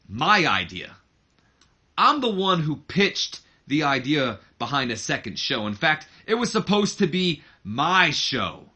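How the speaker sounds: a son taunting his father in a promo voice; lightly voiced wrestling promo, building to a challenge; Shane cutting a promo. Shane confronts his dad in the ring, lightly voiced heel promo.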